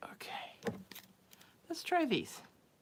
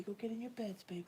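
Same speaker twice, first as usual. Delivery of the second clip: "Go get in your beds" whispered softly; 3 semitones higher, 10 dB quieter than usual. Real, not acted. Sending her sleepy cat to bed, soft whisper.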